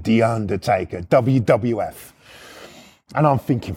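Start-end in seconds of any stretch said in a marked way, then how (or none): 0.0-2.1 lower, drawn-out wrestling announcer voice; hammed-up low ring-name reveal; Undertaker announcement. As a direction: intone it slowly like a ring entrance. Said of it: "I'll do it in that voice".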